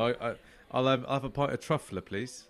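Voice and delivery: lightly put-on Cockney; Cockney accent. Customer explains his order to the landlord, mock Cockney accent. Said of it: "my cider accent is, is a Cockney one".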